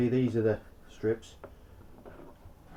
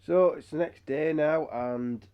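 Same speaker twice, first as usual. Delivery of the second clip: hoarse from a cold; rough, croaky under-the-weather voice; 5 dB louder than usual. Real, not acted. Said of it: "excuse my croaky voice".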